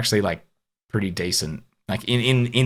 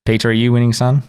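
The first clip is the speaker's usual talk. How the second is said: loud mock dad call; booming fake dad question; meme voice; 2 semitones higher, 7 dB louder than usual. Meme quote to cohost.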